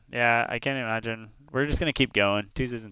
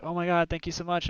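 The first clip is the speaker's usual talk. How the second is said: mock gushing thanks; 9 semitones higher than usual. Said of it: "She's like".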